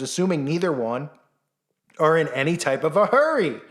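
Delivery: ordinary delivery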